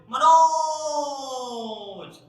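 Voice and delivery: a drawn-out hailing cry of मनोज; long calling shout. Shown as a demonstration. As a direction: call मनोज to a far friend, stretching the last vowel loud and long. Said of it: "कैसे बोलूंगा".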